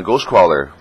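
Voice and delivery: ordinary talk, nothing marked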